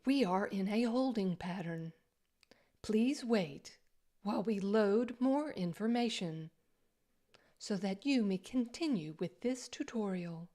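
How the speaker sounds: airline stewardess voice. Pretend. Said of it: "You like my airline stewardess, airline stewardess voice?".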